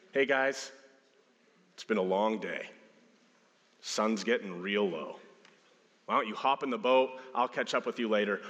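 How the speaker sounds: easygoing, offhand suggestion; casual suggestion. Acted. Jesus to his disciples after a long day, casual suggestion. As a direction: float it gently as a mere idea. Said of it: "Did it start with a suggestion".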